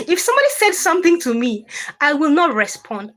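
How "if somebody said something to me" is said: fast, giggling retelling; laughing. Real, not acted. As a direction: talk through a giggle.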